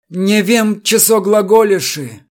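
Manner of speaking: put-on high, cowardly old-church mutter; cowardly mumble in Old Slavonic. A narrator's reading. Chertoslepov dodging the captain's question, cowardly mutter. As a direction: shrink away while muttering archaic words. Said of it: "малодушно отводя глаза, пробормотал он".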